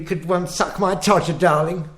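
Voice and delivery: lightly voiced pompous old-film husband; a hint of a domineering 1940s gent, brisk; posh film husband. Husband bossing his wife, lightly voiced posh film gent. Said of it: "It'd be".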